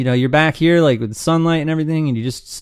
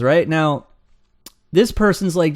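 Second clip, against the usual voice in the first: ordinary talk, nothing marked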